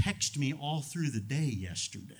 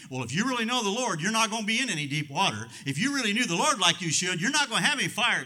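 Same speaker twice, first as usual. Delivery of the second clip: mocking false teaching; 8 semitones higher, 6 dB louder, faster than usual. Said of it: "theology people are buying that's saying".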